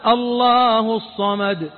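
drawn-out, slow recited الله الصمد; reciting الله الصمد slowly to ask its meaning; slow recitation. Shown as a demonstration. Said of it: "إيش معنى الصمد".

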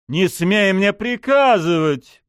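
slow, loud furious order; angry outburst. A narrator's reading. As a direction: snap back in fury. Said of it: "вспылил Лыков".

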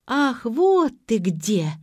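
high, drawn-out jealous shriek; loud slow screech. A narrator's reading. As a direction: shriek it out slowly like a jilted girlfriend. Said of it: "завизжали сбоку".

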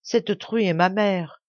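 slow, with a touch of tears; slow down, mildly tearful; tearful confession. Acted. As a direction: aveu lent, un peu larmoyant. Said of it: "le visage baigné de larmes".

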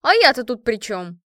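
loud indignant question; shouted protest. A narrator's reading. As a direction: object loudly at being dragged in. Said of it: "крикнула Инга".

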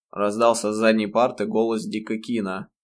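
plain reading voice

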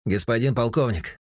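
an excited radar operator; agitated. A narrator's reading. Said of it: "взволнованный голос".

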